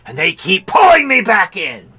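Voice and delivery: high, loud mock mobster plea; Godfather quote. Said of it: "like fucking The Godfather".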